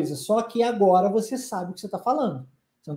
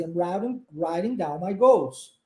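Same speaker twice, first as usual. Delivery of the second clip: slow model sentence; 4 semitones lower than usual. Shown as a demonstration. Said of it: "fazer a junção com essa frase".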